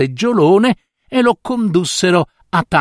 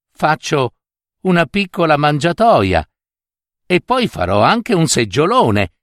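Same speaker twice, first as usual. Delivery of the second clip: put-on higher, childlike little boy voice; a young boy lightly played, higher; small child voice; 4 semitones higher than usual. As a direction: voice the grandson innocently, pitched up. Little grandson answers his father.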